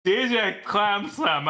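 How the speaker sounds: slow tipsy announcer; drunk. Acted. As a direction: drag the name out a little drunk. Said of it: "got a little tipsy this morning".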